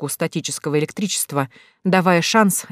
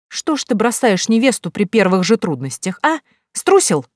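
taunting; 4 semitones higher than usual. Acted. Heroine taunts fleeing fiancé.

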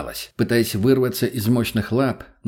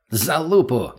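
barked; 4 semitones higher, slower than usual. Acted. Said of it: "рявкнул Мутный".

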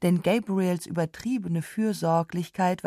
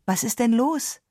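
almost irritated; 6 semitones higher than usual. A narrator's reading. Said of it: "sagte sie fast gereizt".

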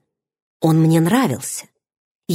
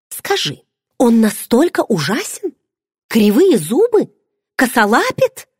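higher, hammed-up mock dread; mock horror; 6 semitones higher than usual. A narrator's reading. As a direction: grill her in pretend terror, higher. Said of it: "С притворным ужасом допрашивала меня Бренда". (в притворном ужасе, выше)

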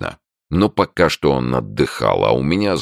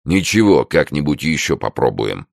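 good-natured. Acted. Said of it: "благодушно пообещал он".

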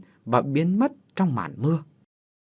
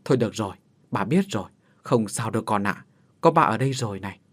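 soothing father; 3 semitones lower, faster than usual. Acted. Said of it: "vỗ về con".

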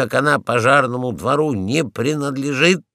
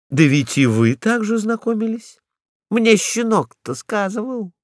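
sly retort; 7 semitones higher than usual. Acted. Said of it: "отвечала она".

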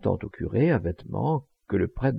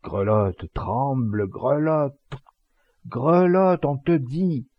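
drawn-out chant, building higher and louder; insistent repeating; 4 semitones higher, 3 dB louder, much slower than usual. A narrator's reading. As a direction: repeat the order with mounting insistence. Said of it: "et il répétait". (ordre répété, de plus en plus fort)

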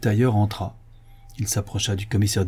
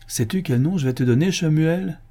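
slightly raised, ceremonious question; mildly solemn; 6 semitones higher than usual. A narrator's reading. Commissioner about to bestow a name on Shemuel, solemnly. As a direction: announce it with a touch of pomp. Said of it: "dit-il solennellement".

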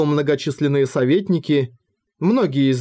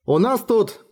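cut off mid word; 7 semitones higher than usual. Acted. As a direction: stop short mid sentence. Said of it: "Он замолк на полуслове".

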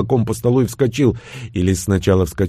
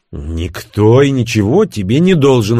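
curt retort; 3 dB louder than usual. Acted. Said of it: "отрезал Левша".

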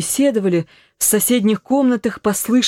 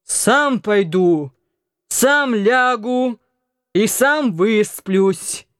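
put-on very slow, slurred drunk voice; stubborn drunk insisting; drunken mumble; much slower than usual. A narrator's reading. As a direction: drunk son refusing his mother's help. Drunk Anton staggers off.

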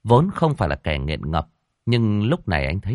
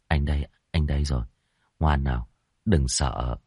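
soothing; 4 semitones lower than usual. Acted. Hoàng comforts panicking girlfriend.

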